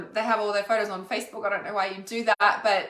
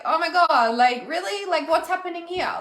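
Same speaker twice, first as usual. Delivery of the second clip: high, loud mock panic at another breakdown; freaking out; 7 semitones higher, 4 dB louder than usual. Viewer's computer playing up, voiced as loud high mock panic. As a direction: play up the disbelief, pitched way up. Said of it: "you're freaking like".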